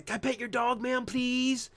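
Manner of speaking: put-on high, polite childish begging; little kid asking. Streamer playing a kid asking a dog owner, high childish plea. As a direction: sweetly plead with the owner like a kid. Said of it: "like a little kid".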